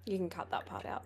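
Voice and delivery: whispered aside; whispering. Real, not acted. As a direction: whisper it off the record. Aside meant to be edited out.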